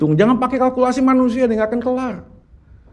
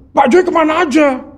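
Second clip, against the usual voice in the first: higher, pleading reading of Joy with feeling; longing tone; 7 semitones higher than usual. Retold or imitated. Wife reading the message aloud, imitated pleading and high. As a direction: read it as if missing him dearly. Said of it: "lu yang bacanya begitu".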